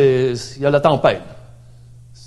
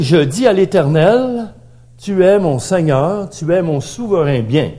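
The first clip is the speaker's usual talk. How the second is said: David's psalm declared aloud, higher and louder; proclaiming David's words; 4 semitones higher, 5 dB louder than usual. Retold or imitated. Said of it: "David dit".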